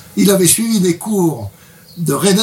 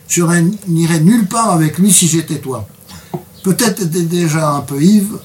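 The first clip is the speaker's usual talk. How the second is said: reads a book extract to the interviewer, a bit brighter than his chat; reading aloud. Acted. Reading his translation aloud for the interviewer, measured narration. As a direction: read the passage like story narration.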